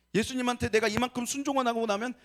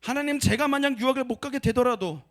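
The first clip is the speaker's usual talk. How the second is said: committed confession; 4 semitones higher, 4 dB louder than usual. Retold or imitated. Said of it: "입에 차마 떨어지지 않았던 그 고백".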